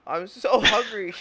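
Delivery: whiny hunger. Retold or imitated. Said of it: "their kid is like".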